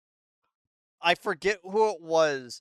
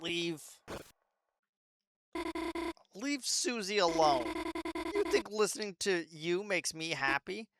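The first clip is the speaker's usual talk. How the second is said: put-on a touch softer, hurt girl pushing back; a timid daughter finally refusing; quiet defiant girl; 5 dB quieter, slower than usual. Noelle defies Queen.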